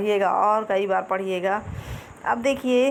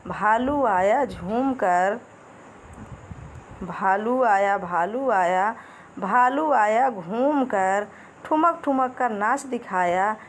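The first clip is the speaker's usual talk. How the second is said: slow sing-song nursery rhyme chant; rhythmic poem recitation; slower than usual. Acted. Teacher reciting a rhyme to children, slow and sing-song. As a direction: lilt each line slowly for little kids.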